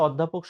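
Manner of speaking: অধ্যাপক with rounded first vowel and doubled dh; od-DHA-pok for অধ্যাপক; standard pronunciation. Shown as a demonstration. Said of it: "প্রমিত উচ্চারণ হচ্ছে".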